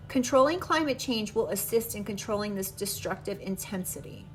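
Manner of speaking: measured, even reading-aloud voice. Acted. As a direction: read the guidebook text to viewers. Reads card book aloud.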